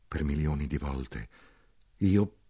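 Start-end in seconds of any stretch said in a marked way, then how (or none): 0.1-1.3 "per milioni di volte" said low and soft, a tired soldier; weary soldier. Acted. A soldier telling the narrator his suffering, low and weary. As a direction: let "milioni" sink, heavy and resigned.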